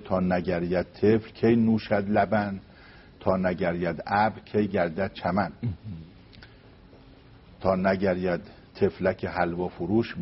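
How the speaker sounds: slow measured verse recital; unhurried Persian poetry chant; poem recitation. Acted. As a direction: recite the couplets slowly and deliberately.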